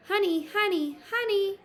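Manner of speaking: high, loud teasing call; gleeful cry. Acted. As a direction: sing out to lure him. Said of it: "she cried, grinning".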